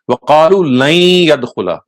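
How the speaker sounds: وَقَالُوا لَنْ يَدْخُلَ run together fast, لَنْ blending into يَدْخُلَ; لَنْ يَدْخُلَ merged as layadkhula; joined Arabic pronunciation. Shown as a demonstration. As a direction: say لَنْ يَدْخُلَ as one flowing word, fast. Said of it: "the pronunciation would be".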